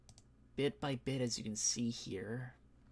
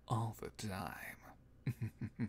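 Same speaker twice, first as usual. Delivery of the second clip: whispering; 2 semitones lower, 3 dB quieter, much slower than usual. Real, not acted. Trailing whispered tease.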